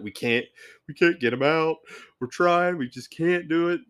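retold hysterical family. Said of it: "they're hysterical".

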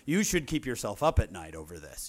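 slow, pointed fake forgiveness; passive-aggressive forgiveness. Shown as a demonstration. Speaker mocking his own forgiveness, slow and pointed. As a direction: forgive with a guilt trip. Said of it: "When I forgive someone, I say".

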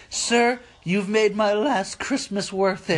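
high, slow, choked-up imitation; mock tearful. Imitating customer thanking the manager, mock tearful. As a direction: overdo the weepy gratitude. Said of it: "she hugs him and starts crying".

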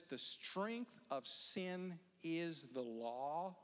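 slow, weighty verse reading; scripture reading. Acted. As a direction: read the verse slowly and solemnly. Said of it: "and then it says".

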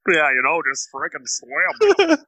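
imitating a wasted dive teacher; drunk scuba instructor. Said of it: "my drunk scuba instructor voice".

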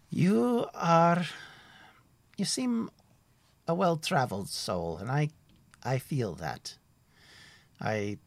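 a cheerful forest ranger chatting; friendly woodsman Tim. Acted. GM voices woodsman NPC.

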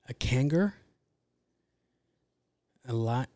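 whispered guess at a made-up word; half-whispered musing. Real, not acted. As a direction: breathe it out as a hushed question. Pondering made-up zodiac name.

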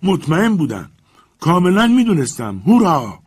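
very high, loud gleeful whoop; triumphant shout. A narrator's reading. Legrand leaps about shouting in triumph. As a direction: cheer in wild triumph. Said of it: "فریاد کشید".

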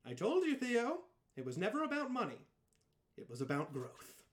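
lightly voiced distorted villain; a hint of a glitching villain; voice through static. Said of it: "in a distorted voice says".

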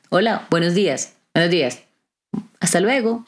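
lightly cheerful hello and goodbye; cheerful greeting. Retold or imitated. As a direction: keep it friendly to a grumpy person. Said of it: "con una sonrisa". (saludo amable y ligero)

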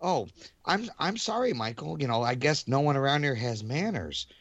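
passive-aggressive. Retold or imitated. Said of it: "She'll be like".

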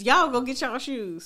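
slow Southern parent calling out, y'all drawn out. Retold or imitated. Parent telling the kids to get their shoes, slow Southern call. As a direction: sound like a country mom telling kids to go.

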